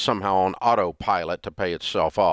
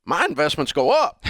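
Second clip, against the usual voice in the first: higher, laughing through the punchline; grandfather's retort; 6 semitones higher than usual. Retold or imitated. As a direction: deliver grandpa's comeback while cracking up. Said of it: "He goes".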